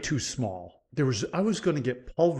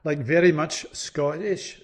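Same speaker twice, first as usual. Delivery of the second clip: put-on a touch slower, in a broad Scottish accent; 3 semitones higher, 3 dB louder than usual. Scotsman proving his roots to the podcast host, in a Scottish accent. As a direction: slip back into your native Scottish accent. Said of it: "when I use the Scottish accent".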